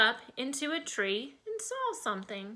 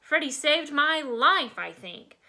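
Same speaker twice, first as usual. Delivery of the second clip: put-on little girl voice; 4 semitones higher, 4 dB louder than usual. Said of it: "Darla said".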